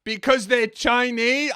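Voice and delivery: loud burst, then halting, slow answer; hammed-up flustered indignation; mock angry stammer. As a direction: bluster high, then grope for a reason. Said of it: "I just got angry".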